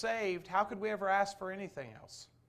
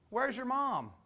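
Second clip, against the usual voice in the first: mother-in-law on phone; 6 semitones higher, slower than usual. Retold or imitated. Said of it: "Amy's mom said".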